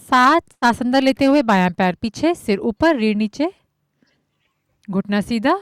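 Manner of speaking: measured count-led cueing with long pauses; yoga instruction. Acted. Yoga teacher guiding students breath by breath, measured instruction. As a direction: call out each movement evenly, step by step.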